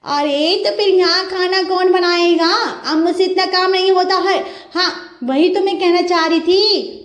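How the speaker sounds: sister-in-law needling her brother's wife; teasing sister-in-law. Acted. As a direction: tease the new bride sweetly but slyly. Bickering family voices.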